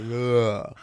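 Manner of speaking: open-mouthed "ugh" of vowels falling out; loose, spilling-out groan; slack-mouthed ugh. Shown as a demonstration. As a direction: let an "ugh" drop from a slack jaw. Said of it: "fall out of your mouth".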